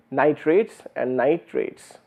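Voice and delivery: slow pause demo; nit, pause, rates, then run nitrates together. Shown as a demonstration. Lecturer to students, slow nit rates then nitrates. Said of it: "if you see what I did here, I'm just introducing a pause".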